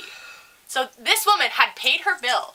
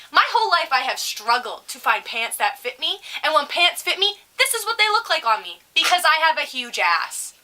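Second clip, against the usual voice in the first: indignant rant; 3 semitones higher than usual. Acted. Acts out imagined indignant comeback.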